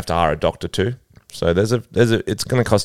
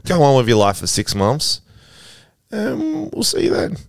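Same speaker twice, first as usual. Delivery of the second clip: doctor signing off; 7 semitones higher than usual. Retold or imitated. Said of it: "So he'll be like".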